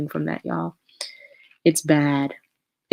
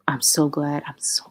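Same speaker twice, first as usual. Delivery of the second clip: whispered. Real, not acted. Relieved aside after topic.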